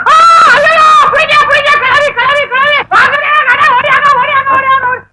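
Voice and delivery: high, loud cries for help, calling the street; shouting for help. Acted. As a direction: yell to everyone to come running. Staged robbery, calling for help. (உதவிக்கு உரக்கக் கூவுதல்)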